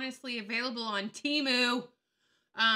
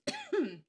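short cough; 12 semitones higher than usual. Real, not acted. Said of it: "I'm choking and this hurts".

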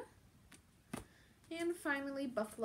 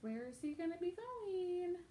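higher, hushed teasing whisper; playful whisper; 7 semitones higher than usual. Real, not acted. Teasing question to children.

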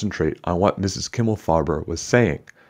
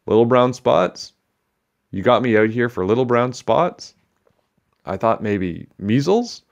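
raised, slow disbelief; incredulous; 5 semitones higher than usual. Acted. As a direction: scoff at the trivial fuss. Teacher scoffs at tiny complaint.

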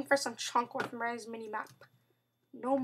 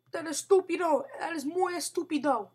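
mock Spanish; 3 semitones higher, 3 dB louder than usual. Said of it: "For those of you who don't take Spanish".

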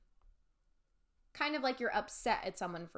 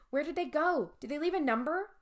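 worried; 6 semitones higher, 4 dB louder than usual. A narrator's reading. Worried questions.

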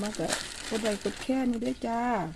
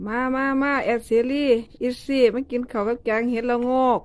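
loud call across the yard; calling out loudly; 3 semitones higher, 6 dB louder than usual. Real, not acted. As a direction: call everyone in to eat. Calling family to eat.

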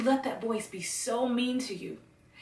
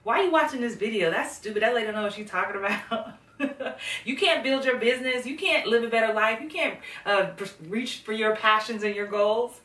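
louder, sneering put-downs; mocking inner critic; 4 dB louder than usual. A mild mock inner critic mocking the viewer for watching. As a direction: belittle the viewer like a nasty inner voice. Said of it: "that voice could be talking to you".

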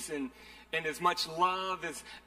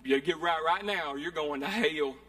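mock hellfire preacher; 3 dB louder than usual. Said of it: "y'all been to that church before".

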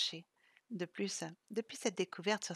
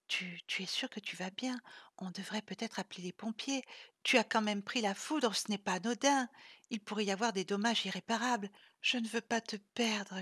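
half-whispered worried plea, stammering; moaning. Acted. Isa kneeling before Vlad, fearful moaning plea. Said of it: "gémit Isa".

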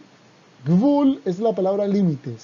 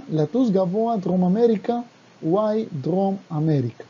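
brisk, rhythmic recital of the Hebrew verse; fast lyric read-through in Hebrew; reading song lyrics; much faster than usual. Shown as a demonstration.

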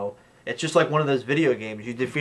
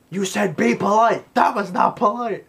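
high, louder put-on voice; mock indignant; 8 semitones higher, 4 dB louder than usual. Brandon Lee complaining to Dolph, put-on high voice. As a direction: whine the complaint in a silly voice. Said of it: "movie quote retold".

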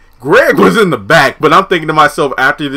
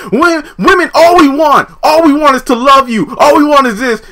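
high pleading woman; 12 semitones higher, 5 dB louder than usual. Retold or imitated. Pam's speech voiced.

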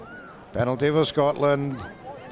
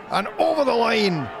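rising to a thrilled shout at the score; excited try call; 7 semitones higher than usual. Real, not acted.

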